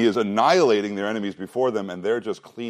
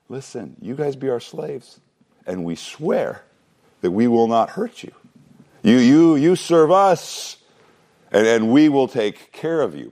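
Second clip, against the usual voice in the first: higher, louder, voiced as smug Israelites striking a deal; mock deal-making; 3 semitones higher, 4 dB louder than usual. Preacher voicing Israelites offering protection to slaves, mock reassuring. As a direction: play the bargainer reassuring his new slaves, drawing out serve us.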